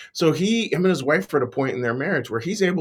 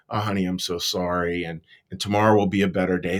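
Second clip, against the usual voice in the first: gentle; 4 semitones lower than usual. Acted. Parent consoling a child after a bad school day, gentle. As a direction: reassure a child kindly, with mild tenderness. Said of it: "we very gently go like".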